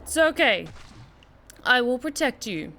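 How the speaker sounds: comforting. Acted. Comforting the little Bendy companion.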